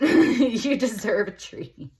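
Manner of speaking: high, loud, slow and drawn out, teasing; a high, loud, slow voiced card speaking; high, slow sing-song treat. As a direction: coo it up high like a playful pep talk. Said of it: "is what it's saying".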